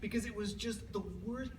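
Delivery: can barely get it out; laughing. Real, not acted. Speaker to audience, laughing hard.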